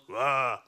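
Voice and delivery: low, gruff mock boy's yell; the brave boys' shout; tough-guy yell; boyish yell. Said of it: "gutter skrek egentlig sånn".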